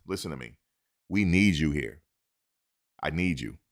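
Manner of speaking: lightly voiced coach pleading; earnest recruiting plea. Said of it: "This is what they need to tell the kids".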